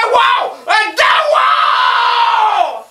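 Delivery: very high, loud yowl; cat's yowl. Retold or imitated. The cat yowling with fear. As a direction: howl like a startled cat. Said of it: "puis il disait".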